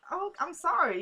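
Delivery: high-pitched, mildly giddy imitation. Recapping Natalie's giddy moment with Lucien, mock-giddy. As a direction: imitate someone getting a little giddy. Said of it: "got really kinda giddy".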